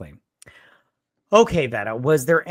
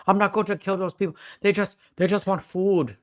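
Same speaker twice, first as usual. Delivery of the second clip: Arnold Schwarzenegger impression; 4 semitones higher than usual. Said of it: "I don't do an Arnold Schwarzenegger impression".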